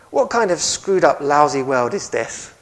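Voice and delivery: put-on loud, exasperated outburst in own English accent; quoted Al Capone. Preacher quoting Capone griping to his cellmate, loud exasperated complaint. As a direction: hammer it out as a fed-up crime boss. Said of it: "Capone told his cellmate one evening this".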